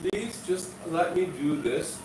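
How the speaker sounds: soft, humble plea to a master; gently voiced humble servant; sweet, humble request. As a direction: ask sweetly and quietly, with deference. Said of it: "said very sweetly, very humbly".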